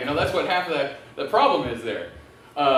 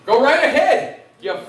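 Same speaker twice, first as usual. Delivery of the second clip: retold yell; 5 semitones higher, 4 dB louder than usual. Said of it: "And I said".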